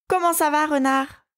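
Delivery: high, teasing call out. A narrator's reading. Rabbit passing the fox's window calls out mockingly. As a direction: shout a cheeky hello across to the fox. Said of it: "cria Jojo".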